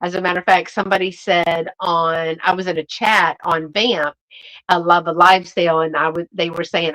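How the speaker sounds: ordinary talk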